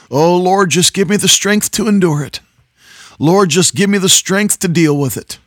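high, pleading mock prayer; whiny prayer. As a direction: beg weakly like a tired believer. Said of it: "you hear people say this".

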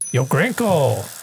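slow whisper. Acted. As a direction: whisper his name slowly. Sneaking into cockpit.

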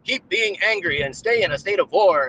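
a hint of a preening TV guest; mock Michael Flynn. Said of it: "It's Michael Flynn".

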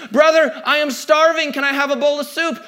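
high-pitched mock plea for food; pleading hungry brother. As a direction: act out a starving brother begging. Acting out famished Esau begging.

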